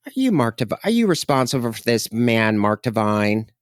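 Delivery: a hint of a flamboyant friend; light flamboyant friend.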